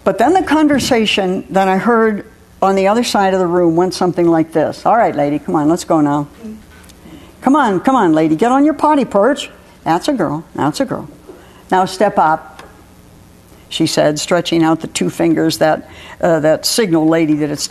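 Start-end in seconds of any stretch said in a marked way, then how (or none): 4.9-12.6 gentle coaxing. Acted. Maureen coaxing her bird onto the perch, gently.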